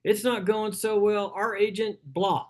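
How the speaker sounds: imitating a buyer. Frustrated buyer telling agent their search, mildly weary. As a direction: lightly voice a fed-up house hunter. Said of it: "Somebody says".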